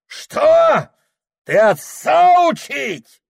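high furious screaming; father screams at his son; raging shout. A narrator's reading. Father outraged.

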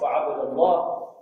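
وعبد الله with a before a thick, heavy L; slow وعبد الله with a velarized lam after a; heavy lam after fatha. Shown as a demonstration. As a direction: say وعبد الله as "wa-abda-LLAAH", slowly. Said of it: "وفخم اللام من اسم الله".

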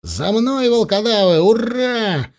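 high-pitched follow-me call; rallying charge cry. A narrator's reading. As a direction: lead the charge with voice lifted high. Commander leads the charge.

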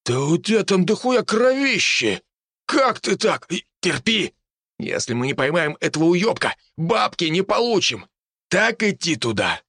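high, agitated yelling; man down shout. A narrator's reading. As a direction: yell in alarm at a hurt friend. Hunter yells at wounded comrade. (взволнованный крик)

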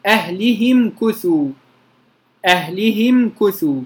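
أهلهم كثوا read with a kasra on the ha; recited word. Shown as a demonstration. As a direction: say أهلهم as ahlihim. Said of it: "كلمة".

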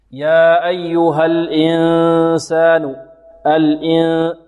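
pure "i" before a long hummed n in "الإنسان"; slow chant, keep "الإن" a true i; clean kasra. Shown as a demonstration. Teacher modelling correct kasra, slow recitation. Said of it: "نحافظ على كسرة الهمزة هنا".

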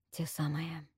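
breathless whisper of recognition; hushed, stunned whisper. Acted. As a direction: say it under your breath. Sees the same goblets.

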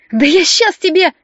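злой выкрик, выше и громче, медленно; рвётся в драку с доктором; злая угроза. A narrator's reading. Варя бросается на доктора. (злобный выкрик, выше и громче)

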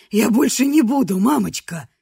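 put-on childish whine. Man speaking as a child.

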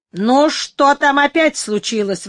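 startled cry; exclaiming. Acted. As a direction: call out sharply, alarmed. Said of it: "воскликнула она".

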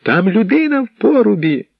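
high, urgent cry; excited shout. Acted. Bald man shouting news of a prisoner, high urgent cry. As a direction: blurt out the news. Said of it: "вигукуючи".

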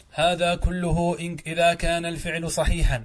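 formal classroom read-aloud; reading out a text. A narrator's reading. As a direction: read the grammar text out deliberately. Reads the grammar text aloud.

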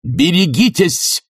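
high, slow shouted warning. A narrator's reading. Bormenthal shouts a warning after Sharikov. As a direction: shout it after the fleeing man. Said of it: "барменталевский крик".

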